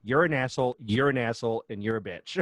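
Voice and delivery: put-on loud little girl calling names, fading out; hammed-up toddler scolding; child insulting. Toddler coming upstairs to scold her parents, loud then fading. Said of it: "she goes".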